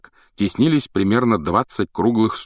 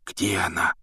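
тихо; 5 dB quieter than usual. Acted. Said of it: "говоривший почему-то шёпотом".

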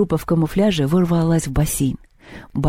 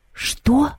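sob; 9 semitones higher than usual. A narrator's reading. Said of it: "всхлипнул Мишка".

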